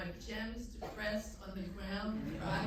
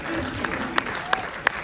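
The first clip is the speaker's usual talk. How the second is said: slow, much higher and louder; mock anguished wail; 13 dB louder, much slower than usual. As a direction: wail it like a tragic heroine. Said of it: "You have to find what works for you".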